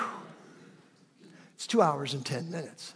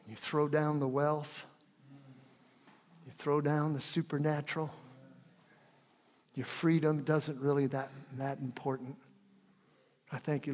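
prayer. Real, not acted. Prays to Jesus.

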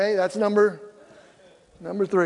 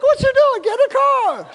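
much higher, louder retold shout; exasperated call; 5 dB louder than usual. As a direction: yell at the wife standing outside the car. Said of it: "I'm like".

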